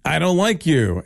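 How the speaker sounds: put-on whiny kid voice. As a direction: whine it like a sulky kid. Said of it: "I can do it in a whiny voice".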